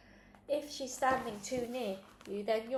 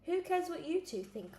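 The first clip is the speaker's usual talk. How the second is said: fierce; 8 semitones higher than usual. A narrator's reading. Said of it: "I said fiercely".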